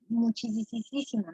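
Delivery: MUCHÍSIMO stretched slowly with repeated "si" syllables; exaggeratedly drawn out. Teacher answering an imagined "how much", muchísimo playfully stretched out. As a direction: draw out the middle of muchísimo, softly.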